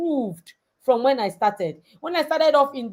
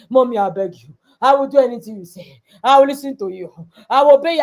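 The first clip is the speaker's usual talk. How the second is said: lightly voiced pleading child, growing louder; begging daughter; 5 dB louder, faster than usual. Daughter begging her mother, mild mock pleading. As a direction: beg mommy like a sorry child. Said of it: "She cried. She begged".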